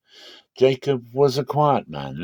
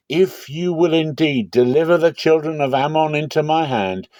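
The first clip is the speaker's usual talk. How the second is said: fervent vow; 6 semitones higher than usual. Acted. Warrior vowing to God before battle, fervent raised plea. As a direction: pour it out as a desperate promise to God.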